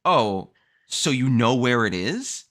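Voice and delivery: pointed disbelief. Retold or imitated. Customer questions UPS about the missing package, pointedly incredulous. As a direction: spell out each question with strained patience. Retelling an exasperated call to UPS.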